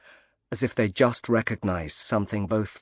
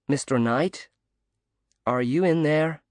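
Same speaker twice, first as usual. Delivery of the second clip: bright, slightly higher call through a door; cheery American woman; 6 semitones higher than usual. A narrator's reading. Woman calling softly through the door to Knight, cheery. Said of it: "an American woman's cheery voice called softly".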